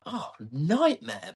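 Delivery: slow, drawn-out exasperation; mock dismay. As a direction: drag it out, acting dismayed. Acts out own dismayed reaction.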